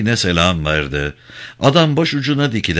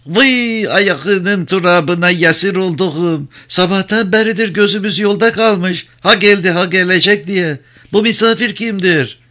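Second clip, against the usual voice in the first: much higher, fussing granny's voice; doting old woman; 11 semitones higher than usual. Acted. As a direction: gush over him like a doting grandmother. White-haired old woman greets Cano.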